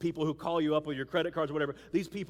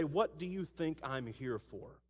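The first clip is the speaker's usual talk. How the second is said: calm Jesus; 4 semitones lower, 3 dB quieter than usual. Acted. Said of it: "Jesus would say".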